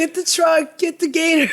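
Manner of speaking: high, loud mock Midwestern holler; hammed-up, badly faked white-person voice; losing it in character. Comedian floundering at audition, losing it in character. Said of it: "I was just losing it".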